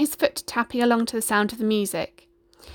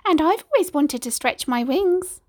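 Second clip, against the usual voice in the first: high hen voice, dreamy; clucking chicken; 7 semitones higher than usual. A narrator's reading. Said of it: "clucked the chicken".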